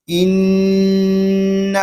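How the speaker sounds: ان in Arabic style, no drawl, no jerk; ان said smooth in the Arabic way; Arabic vowel. Shown as a demonstration. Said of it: "معروف یعنی عربی لہجے میں ادا کریں گے". (عربی لہجے میں ان)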